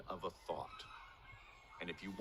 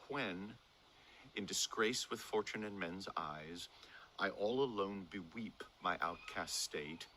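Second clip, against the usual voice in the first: measured verse recitation; sonnet reading. Shown as a demonstration. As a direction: read the sonnet aloud, phrase by phrase with breaths. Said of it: "read it to you ... using that breath".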